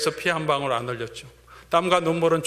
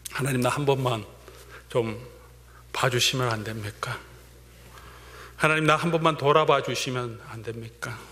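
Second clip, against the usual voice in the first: pleading prayer. Retold or imitated. Voicing a believer's plea to God.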